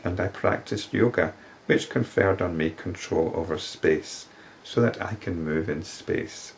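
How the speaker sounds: solemn recital of the woman's plea to the sage; scripture reading. Acted. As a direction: read her words as sacred verse. Reads the woman's plea from text.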